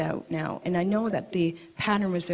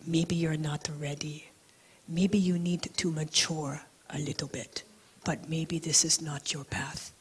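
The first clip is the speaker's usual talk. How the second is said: hushed, lower, kind advice; soft gentle counsel; 3 semitones lower, 6 dB quieter than usual. Retold or imitated. Rinpoche gently tells the student she's not ready, hushed. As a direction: let her down softly, almost whispering.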